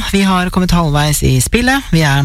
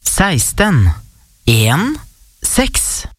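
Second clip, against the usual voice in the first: bingo caller; much slower than usual. Real, not acted. Calls out bingo numbers.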